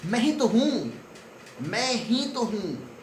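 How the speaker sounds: मैं ही stressed, second time slow and drawn out. Shown as a demonstration. The visitor at the door insists it's him, stressing मैं ही. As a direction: lean on मैं ही. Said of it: "यानी मैं पर stress डाला".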